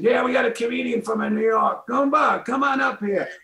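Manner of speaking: very high, oblivious announcer voice; bad introduction impression. Host calling up comedian after crying, mock announcer. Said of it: "the worst introduction".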